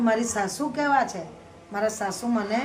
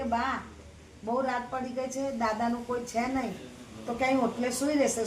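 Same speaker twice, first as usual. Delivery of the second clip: softer, pleading daughter-in-law; gentle plea; 5 dB quieter than usual. Acted. Daughter-in-law softly pleads with her mother-in-law.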